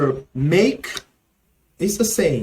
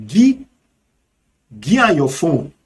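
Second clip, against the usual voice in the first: Nigerian Pidgin; 4 dB louder than usual. Shown as a demonstration. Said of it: "in Nigerian Pidgin English".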